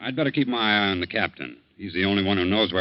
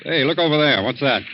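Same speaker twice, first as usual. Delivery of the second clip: excited call; 6 semitones higher, 6 dB louder than usual. Acted. Doctor spots something at sea.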